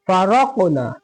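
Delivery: फ़रक़ना with a full, thickened r; heavy ra. Shown as a demonstration. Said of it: "जबर या पेश हो तो मोटा पढ़ेंगे".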